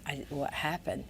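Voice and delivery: whispered, soft confession; hushed apology. Retold or imitated. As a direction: whisper it like a man finally apologizing. Rick whispering his apology.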